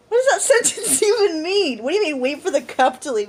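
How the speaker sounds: high, incredulous questioning; baffled mock outrage; retold bafflement. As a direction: demand sense from pure nonsense.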